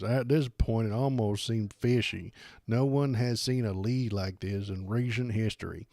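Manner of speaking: a hint of a pompous pundit; mild mock of Steven Crowder reading a claim; lightly voiced impression. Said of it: "let me do his voice".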